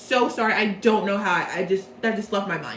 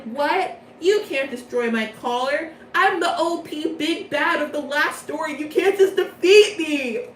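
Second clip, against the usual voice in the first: higher, rising to an indignant cry; mock outrage; 4 semitones higher than usual. Riddle after Leona breaks his collar, mock outrage. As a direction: protest like a stunned former boss. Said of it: "And Riddle's like".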